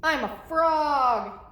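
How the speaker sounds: loud, slow, drawn-out announcement; proud storybook character declaring a new identity; playful Piggy. Acted. Piggy pretending to be a frog, playful announcement.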